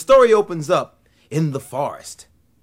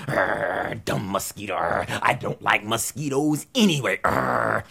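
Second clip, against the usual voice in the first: grumbling iguana; 4 semitones lower than usual. Acted.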